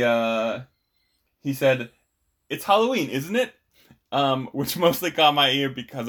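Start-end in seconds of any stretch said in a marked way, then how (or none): 2.5-3.5 higher-pitched British lilt, rising on the tag; put-on British accent with a questioning lift; imitated British accent. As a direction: quote him in a British accent. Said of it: "an awful British accent".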